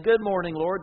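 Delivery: bright and loud, glad to be awake; cheerful morning greeting. Acted. Grateful riser greets the Lord happily at dawn. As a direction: greet the day gladly and loud. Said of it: "and instead of saying".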